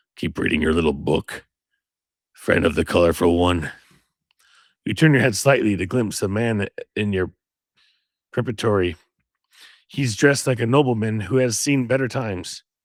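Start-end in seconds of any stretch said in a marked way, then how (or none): 0.2-3.7 very low, rough, gravelly rumble. Reading a story aloud, the narrator voices a man who joins the reader, deep, gravelly voice. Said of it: "the man says with a deep, gravelly voice".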